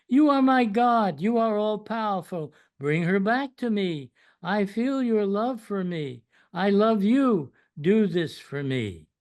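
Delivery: earnest appeal in a poem reading; pleading prayer. A narrator's reading. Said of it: "He prays to you".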